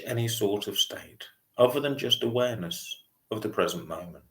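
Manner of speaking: calm meditation guide, long pauses between phrases; unhurried mindfulness voice with spacious pauses; guided meditation. Real, not acted. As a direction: gently lead a breathing meditation, leaving lots of silence. Leads a body scan meditation.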